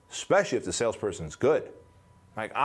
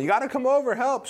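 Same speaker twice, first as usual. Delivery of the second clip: high, urgent yell, retold; imitated screaming; 14 semitones higher, 4 dB louder than usual. Flight attendant begging for backup, imitated screaming. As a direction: shout it high like her plea. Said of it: "And she starts screaming".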